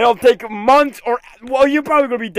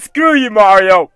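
angry shout; 2 semitones lower, 4 dB louder than usual. Real, not acted. Frustrated at game character.

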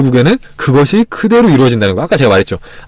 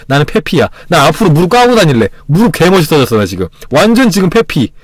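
hammed-up delight. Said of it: "막 이러면서 이런 거 있잖아요".

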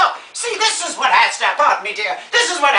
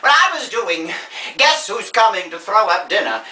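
grande dame telling a film anecdote; theatrical old star. Acted. Old star recalling a film shoot, grandly theatrical. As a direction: reminisce grandly about the old days.

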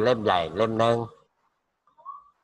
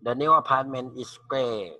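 slow model sentence; 3 semitones higher, much slower than usual. Shown as a demonstration. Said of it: "model sentence read slowly".

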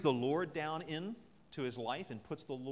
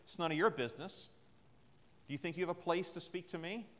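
indignant and slightly louder; prideful retort; 3 semitones higher, 4 dB louder than usual. Retold or imitated. A proud person rebuffing someone who intervenes, indignant. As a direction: puff up and snap back. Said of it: "sometimes in our pride".

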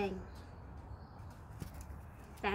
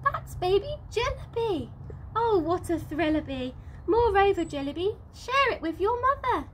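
delighted mother; 5 semitones higher than usual. Acted.

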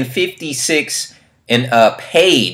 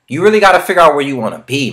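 annoyed outburst; 6 semitones higher, 8 dB louder, faster than usual. Real, not acted. Frustrated rant at viewers.

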